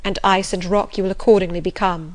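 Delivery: lightly voiced master in reproach; bitter, reproachful master. Master reproaches the governess for making herself a stranger, bitter. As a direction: accuse them with mounting insistence, easing at the end.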